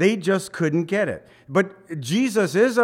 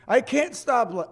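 high mock whine, cut off; mock the complainer again; whiny excuse voice; 9 semitones higher than usual. Mimics excuse-maker.

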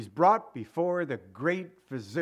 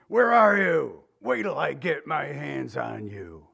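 angry yelling God; slower than usual. Retold or imitated. Preacher mocking an angry God calling Adam, stern yell. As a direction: bark it like a cosmic cop. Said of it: "some cosmic dictator yelling down at you".

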